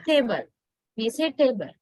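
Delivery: "table" with a pure single "eh" vowel; Sri Lankan monophthong. Shown as a demonstration. Teacher showing the local way, monophthong in "table". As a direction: keep the tongue fixed through the vowel of "table". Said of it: "we use a monothong".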